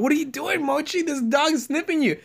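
high pet-talk scolding; talking to a dog. Retold or imitated.

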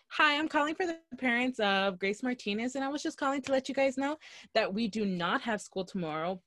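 polite, sweet school phone-call voice; very nice and sweet, like phoning a student's parents. Shown as a demonstration. School caller telling parents about closure, parent-calling voice. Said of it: "That's my voice".

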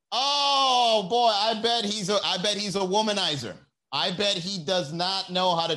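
high, nosy gossip voice; mock gossip. Comedian voicing a gossip judging a stranger. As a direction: play the nosy judger.

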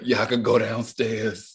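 slow raspy hungover voice. Retold or imitated. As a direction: drag it out groggily. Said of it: "I love to imitate it".

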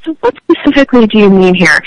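slightly pointed, demanding ask; changed voice. Shown as a demonstration. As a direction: press the question a bit harder. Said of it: "I change my voice a little bit when I say".

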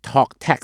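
"talk tax" with the ks ending fully sounded; full X ending. Shown as a demonstration. Host honouring the letter X for listeners, full X ending. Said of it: "ตัว X นะต้องให้เกียรติ".

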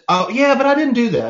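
mock whiny excuse. Young adult shrugging off the advice, mock sheepish. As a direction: play the kid brushing it off. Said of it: "And you're like".

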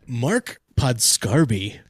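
slow, drawn-out announcer name call. Acted. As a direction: introduce the name like a ring announcer. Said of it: "put on my announcer voice".

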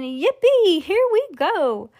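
high, exhilarated whooping; gleeful shout. A narrator's reading. Grandpa Joe as the lift races upward, gleeful shout. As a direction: sing out your delight high up. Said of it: "Grandpa Joe shouted again".

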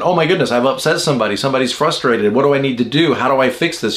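quick, lightly flustered worrying; mock anxiety. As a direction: rattle off worries as an imagined anxious person. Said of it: "push a six into anxiety".

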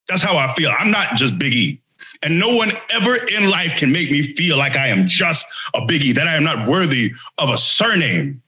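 grandiose declaration. Pretend. Big E proclaiming his surname to the crew with mock gravitas. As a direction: proclaim your new name with fake gravitas. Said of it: "grandiose self-declaration".

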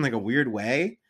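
talking through a burp; words broken by a burp. Real, not acted. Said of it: "Excuse me, I'm burping".

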